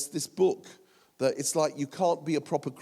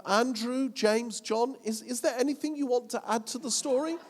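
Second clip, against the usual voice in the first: boastful Peter; 6 semitones higher than usual. Retold or imitated. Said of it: "I bet Pete said".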